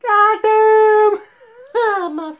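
high shouted Goddamn through laughter; loud laughing yell. Real, not acted. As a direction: burst out, cracking up. Laughing outburst.

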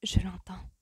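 breathy half-whisper, not hushed in level. A narrator's reading. Woman answering her dance partner, eyes closed, whispering. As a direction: let it out on a breath. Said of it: "chuchota-t-elle".

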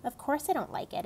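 put-on boy scoffs at the idea he likes it; indignant outburst. A narrator's reading. Boy to maid, exasperated protest.

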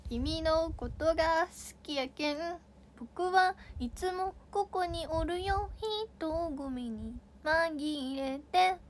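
whisper-soft... no, a gently acted Hakata confession, slowly; Hakata dialect. Shown as a demonstration. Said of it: "博多弁わかんない".

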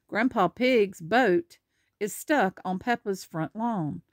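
lively picture-book narration; animated storybook reading; reading to children. Acted. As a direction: read it out clearly for a small child. Reads picture book aloud.

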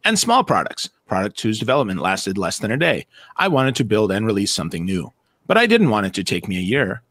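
low, even reading voice like a text-to-speech robot. Retold or imitated. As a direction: read it out like a flat machine. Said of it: "I mean, I can do that robot voice too".

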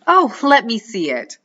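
high wheedling plea; begging witch. A narrator's reading. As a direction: beg sweetly like a witch. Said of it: "the witch begs".

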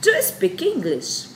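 bright, high classroom model question; high teaching demo. Shown as a demonstration. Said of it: "aí ela vai perguntar".

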